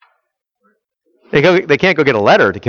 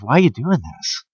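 softer, gentle pleading question; compassionate; 4 semitones lower, 6 dB quieter than usual. Shown as a demonstration. Preacher voices Jesus asking Saul, compassionate and soft. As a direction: ask it with hurt, not anger. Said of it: "it's more compassionate".

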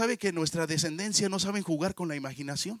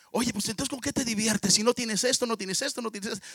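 mocking schoolboy, a bit higher, listing what the other lacks; mocking kid; 4 semitones higher than usual. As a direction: rub it in like a spoiled rich kid. Niño rico presume al pobre. (niño rico burlón, presumiendo a su compañero pobre)

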